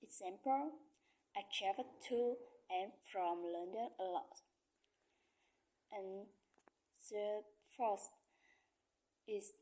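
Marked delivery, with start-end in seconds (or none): 1.3-4.4 "to" and "from" given full strong stress; stress on opposite prepositions. Shown as a demonstration. Learner showing opposite prepositions, stressed TO and FROM. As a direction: lean on "to" and "from" as opposites. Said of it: "on opposite preposition".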